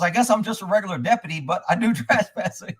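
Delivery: chuckling through the reply; retold laughing deputy. Deputy admitting he is no expert, laughing. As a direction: break into a laugh near the end. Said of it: "And he starts laughing".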